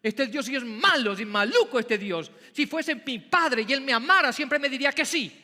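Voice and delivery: hammed-up grumbling believer; whiny complaint. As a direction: sulk like a spoilt child. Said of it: "y tú dices".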